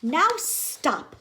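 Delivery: high loud order; firm command. Acted. Max ordering the monsters, loud. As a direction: halt the party. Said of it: "Max said".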